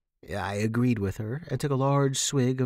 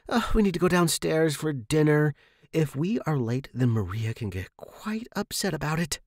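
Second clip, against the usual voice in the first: higher, hurried squeak of alarm; a light squeaky warning, pitched up; 5 semitones higher than usual. A narrator's reading. Megan warning Sarah not to be late, higher squeak. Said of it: "she squeaked".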